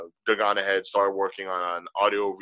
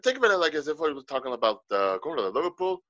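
higher, airy-throated Irish lilt; light Irish accent; 5 semitones higher than usual. Shown as a demonstration. Explaining the accent to his co-host, light Irish accent. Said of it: "An Irish accent has, like, a light throat feel".

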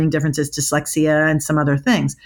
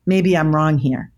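calm. Shown as a demonstration. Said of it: "you have to say it calm".

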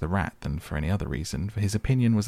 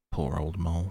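kindly. Acted. Rat consoles the injured mole, kindly. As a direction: comfort a hurt friend. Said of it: "said the rat kindly".

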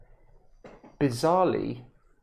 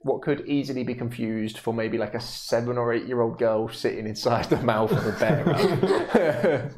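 stifled giggles. Real, not acted. DM narrating while laughing.

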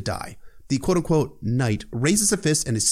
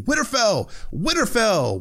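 war cry; 11 semitones higher, slower than usual. Retold or imitated. Arya shouting as she kills the man, a high battle cry. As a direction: hurl the name as a war cry.

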